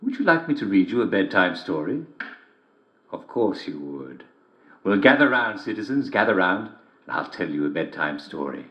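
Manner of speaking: genial host inviting listeners; host welcoming listeners to bedtime story; radio storyteller intro. Acted. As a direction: gather the listeners round for a story.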